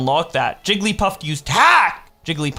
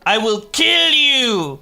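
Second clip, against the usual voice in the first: slow, higher, louder hammed-up threat; mock death threat; 6 semitones higher, 4 dB louder, slower than usual. Friend joking about Photoshop, hammed-up threat. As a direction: ham up a silly murder threat.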